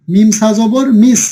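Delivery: slow, careful spelling aloud; teacher modelling syllables slowly. Shown as a demonstration. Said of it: "মিম সাজবর কি?".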